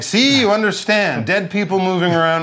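hurrying a friend off in mock alarm; Johann's urging. Johann urging the narrator back into the carriage, mock urgent. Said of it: "Johann's like".

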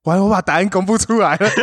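fast, breaking into laughter; laughing. Real, not acted. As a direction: blurt it out while cracking up.

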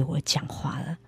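hushed whisper. Real, not acted. Telling the host God spoke to her, in a whisper. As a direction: drop to an awed whisper. Awed about God's voice.

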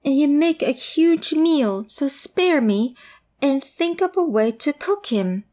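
high, eager little goat. Acted. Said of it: "said the goat".

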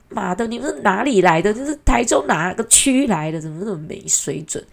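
mock indignant rant. Inner rant at rude couple.

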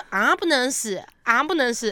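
"啊不能死" for ambulance in Mandarin syllables; Mandarin-sounded English. Retold or imitated. Joking about ambulance, "啊不能死" as Mandarin sound-alike. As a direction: say "啊不能死" syllable by syllable like Chinese words. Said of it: "就很像那个啊".

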